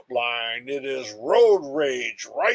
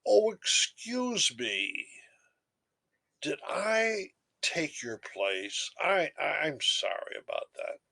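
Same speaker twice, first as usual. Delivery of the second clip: apologetic whisper; 2 semitones higher, 5 dB quieter than usual. Retold or imitated. The line-cutter apologizes to the speaker in a hushed whisper. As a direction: whisper the apology like a sheepish stranger. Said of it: "smiles apologetically and says".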